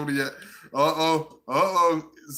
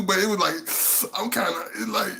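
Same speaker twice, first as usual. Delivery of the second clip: normal talking voice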